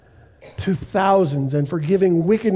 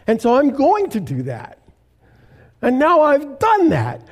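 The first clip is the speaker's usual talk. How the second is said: a rising, cocky rebel voice climbing higher; rebellious voice; 4 semitones higher than usual. Retold or imitated. Pastor voicing the spirit of rebellion to congregation, cocky. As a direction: play the defiant inner rebel, building up. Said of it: "that spirit that says".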